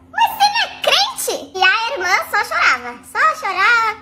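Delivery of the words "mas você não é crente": high, slow, shouted disbelief; incredulous shout. Retold or imitated. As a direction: yell it in outraged disbelief. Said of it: "retorting to cheating fiancé". (grito incrédulo e lento)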